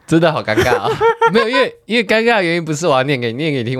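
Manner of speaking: embarrassed laughing through the words; nervous laugh. Real, not acted. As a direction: giggle out of awkwardness.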